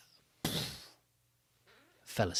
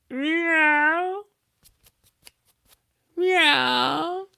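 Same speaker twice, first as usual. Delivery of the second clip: high, loud, rising meow; a cat meowing at visitors; 12 dB louder than usual. Acted. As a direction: mew like a cat.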